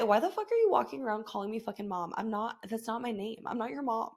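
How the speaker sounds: half-joking irritated mutter; retold annoyance. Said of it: "I get so annoyed".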